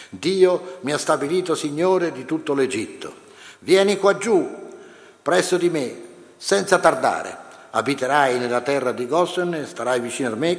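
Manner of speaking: measured, solemn reading aloud; scripture reading. Acted. Teacher reading Joseph's story to the class, solemn reading voice. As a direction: read the Bible passage to the class, steady and grave. Reads Genesis passage aloud.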